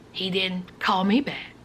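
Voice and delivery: breathy hushed aside; whisper. A narrator's reading. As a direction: whisper it pointedly.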